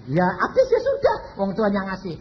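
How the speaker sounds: cheerful laughing answer, quick; laughing reply. Retold or imitated. Landowner answers God with a laugh, cheerful laughing. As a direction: shrug it off with a laugh.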